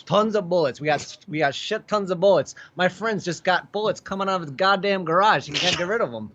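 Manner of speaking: exasperated Chicago local, played for laughs; comic Chicago rant; Chicago accent. Shown as a demonstration. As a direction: complain in a broad Chicago accent. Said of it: "that's what Chicago's like".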